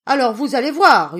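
very loud, high angry howl; wolf howling in fury at the pigs. Acted. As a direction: roar the threat in rage. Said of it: "hurla le loup".

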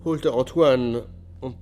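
anguished telling. Acted. Confession continues, agitated.

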